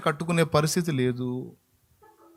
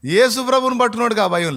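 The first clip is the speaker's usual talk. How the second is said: preaching proclamation; 9 semitones higher, 8 dB louder than usual. Real, not acted.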